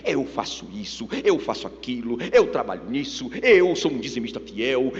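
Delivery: low, pompous mock recital of deeds; self-righteous boasting. Preacher mimics believers listing their deeds, self-righteous boasting.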